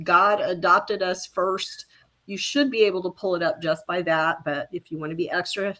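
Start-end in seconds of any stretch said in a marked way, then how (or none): 0.0-1.8 slow and clear. Shown as a demonstration. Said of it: "Just go to amazon dot com".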